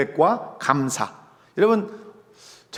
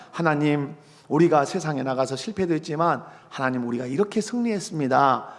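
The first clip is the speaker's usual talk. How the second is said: model prayer; 3 semitones lower than usual. Acted. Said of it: "이런 기도를 하나 보자 하면".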